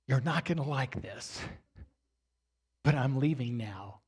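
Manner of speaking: low, soft, composed defiance with a pause midway. Retold or imitated. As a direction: state it quietly, holding your composure. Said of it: "got my composure back".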